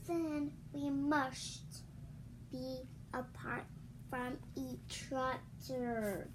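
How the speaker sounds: slow sad fade; slow melodramatic goodbye; mock sad. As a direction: drag it out sadly.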